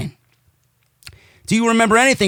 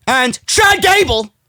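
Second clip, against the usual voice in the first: slow, raised-pitch mock awe; mock amazement; 4 semitones higher, slower than usual. Real, not acted. Host mocking Sheamus's so-called emphatic wins, mock amazement. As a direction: make the name sound absurdly grand. Mocks the beaten opponents.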